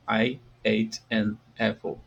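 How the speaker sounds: slow, careful "I ate an apple"; slow model sentence. Shown as a demonstration. Teacher repeats "I ate an apple" slowly for students. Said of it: "I ate é o passado do verbo comer".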